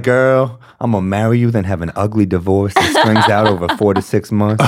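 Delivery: croon-like mock proposal, played for laughs; soulful smooth talker. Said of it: "A soulful motherfucker".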